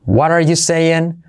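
"What are you saying" slow, t of "What" tapped into "are"; linked form. Shown as a demonstration. Teacher demonstrates second form, "What are" linked. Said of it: "Bueno, cuatro, mira".

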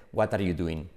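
Spanish teacher's accent, "wat ar yu duin"; Spanish-accented English. Shown as a demonstration. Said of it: "incluidos nuestros profes".

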